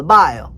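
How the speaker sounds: bayou said as "bio"; local bayou pronunciation. Shown as a demonstration. Showing how locals say bayou, pronounced "bio". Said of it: "they call it the bio".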